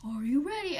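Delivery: eerie breathless whisper; spooky game-show whisper; creepy whisper. Retold or imitated. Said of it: "that really creepy voice".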